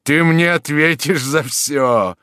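furious threat; threatening. Acted. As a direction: advance on him threateningly. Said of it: "страшный в своём гневе, угрожающе".

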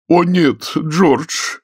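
high, coaxing lady's voice; ingratiating. A narrator's reading. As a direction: wheedle him into coming. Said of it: "вкрадчивым голосом сказала миссис Вадингтон".

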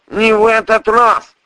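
high, loud, insistent repeat; the voice in his head, loud and high; prosecutor's voice. Acted. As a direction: hammer it home, loud and high. Same line repeated by prosecutor.

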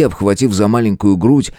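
usual speaking voice

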